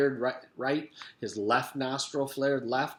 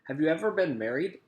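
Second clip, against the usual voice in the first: cat on a piano; 5 semitones higher, 4 dB louder, faster than usual. A narrator's reading. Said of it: "Allison's voice was like a cat walking across a piano".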